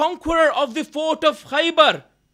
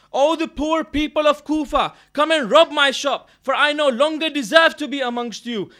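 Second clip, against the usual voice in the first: raised, impassioned storyteller's cry; retold public shout; 5 dB louder than usual. Remorseful butcher addressing the people of Kufa, in a retold shout. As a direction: call it out to the whole street, stopping short of a full yell. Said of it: "he comes out of his shop and he shouts".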